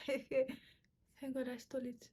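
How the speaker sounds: laughing through it, slow. Real, not acted. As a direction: giggle while confessing.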